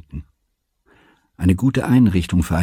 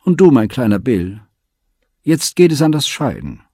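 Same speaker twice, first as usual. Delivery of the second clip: high, louder tearful lament; weeping call; 6 semitones higher, 5 dB louder than usual. A narrator's reading. Aunt weeps goodbye to the boys at the station, higher and louder. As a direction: wail the farewell through tears. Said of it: "Die Tante weinte".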